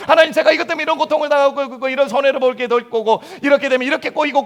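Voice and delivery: a hint of a pushy believer lecturing God, quick and insistent; over-explaining prayer. Preacher imitating a believer explaining a problem to God, mildly insistent. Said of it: "계속 설명합니다".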